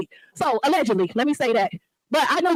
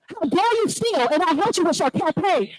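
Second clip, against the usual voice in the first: slowed, each word hammered; indignant. Real, not acted. Resident confronting the mayor.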